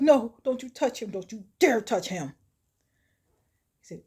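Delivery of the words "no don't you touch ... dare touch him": loud, higher protest, easing off; panicked warning. Retold or imitated. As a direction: warn someone off in distress.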